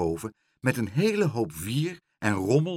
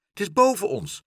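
higher, urgent little exclamation; alert call; 10 semitones higher, 4 dB louder than usual. A narrator's reading. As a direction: call it out high-pitched. Aagje points out the cry above. (opgewonden uitroep, hoog)

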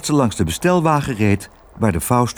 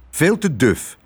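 higher little mouse exclamation; mouse calling out; 5 semitones higher than usual. Acted. Mouse rejecting the safe attic, higher called-out mouse voice. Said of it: "riep Lodewijk".

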